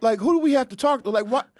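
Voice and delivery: baffled, asking again and again; confused. Pretend.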